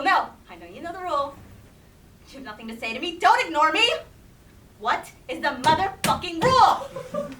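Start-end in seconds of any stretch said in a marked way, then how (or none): 3.2-7.3 heated family shouting. Acted. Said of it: "your adult tantrum".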